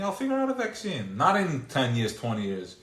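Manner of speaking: loud, high taunting boast, rising as it goes; mock defiant boast. DNA taunting its creator, a loud high boastful shout.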